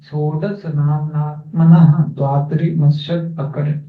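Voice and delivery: measured, drawn-out Sanskrit recitation; verse recitation. Acted. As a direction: recite the scripture verse slowly, syllable by syllable.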